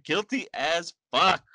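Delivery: slow deadpan judge; blunt judge verdict. Retold or imitated. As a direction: drop the verdict slowly. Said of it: "the judge is like".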